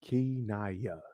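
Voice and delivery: Kinaya said slowly in three syllables, ki-na-ya. Shown as a demonstration. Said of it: "Okay, three syllables".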